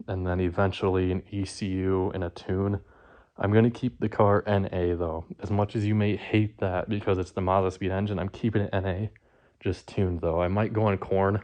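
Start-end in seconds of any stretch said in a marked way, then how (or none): 3.4-11.4 slightly winded, talking between breaths; catching breath while talking. Real, not acted. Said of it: "catching my breath still".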